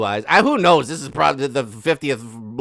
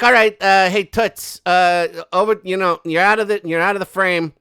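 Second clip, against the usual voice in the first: mock bossy photographer; 4 semitones higher, 4 dB louder than usual. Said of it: "He's like".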